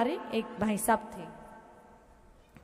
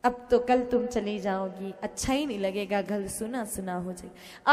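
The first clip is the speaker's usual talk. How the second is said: fake sadness; 3 semitones lower, 4 dB quieter than usual. Husband pretends to grieve his wife's trip, mock-sad. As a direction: put on a sorrow he doesn't feel. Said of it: "दिखावे के लिए".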